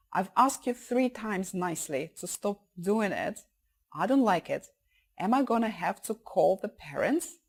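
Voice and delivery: controlled warning; serious voice. Shown as a demonstration. Child's fourth attempt to stop a kid, serious warning. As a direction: assert yourself politely but firmly. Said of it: "teach your child to use a serious voice".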